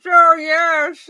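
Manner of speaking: put-on old New York Jewish voice; Jewish accent. Shown as a demonstration. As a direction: ham up the accent, high and loud. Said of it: "Or talk like this".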